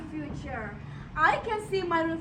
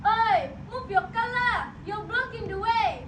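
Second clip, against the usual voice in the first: shouting. Acted. Shouting at traffic.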